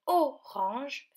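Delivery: "orange" in two beats, o, range; syllable by syllable. Shown as a demonstration. Teacher shows children the different ending, "orange" split in two. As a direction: pause inside "orange" before the last syllable. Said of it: "finit avec la syllabe".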